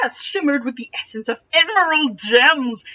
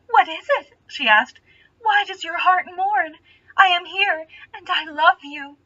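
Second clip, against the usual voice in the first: sweet lady voice; 7 semitones higher than usual. Acted. Starsberry voiced, higher pitch.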